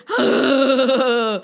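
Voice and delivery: monster roar. A narrator's reading. Serpent breathes fire and poison.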